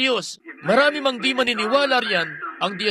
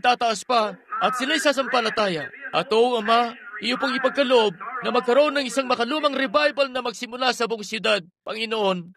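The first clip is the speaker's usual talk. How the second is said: earnest prayer. Acted. Preacher praying for the sick before the healing line, reverent. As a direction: pray over the congregation, unhurried.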